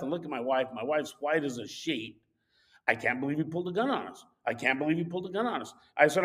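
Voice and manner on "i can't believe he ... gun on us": fast, soft stunned repeat; shocked. Retold or imitated. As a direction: babble it in shock, quietly. Wife in shock after gun.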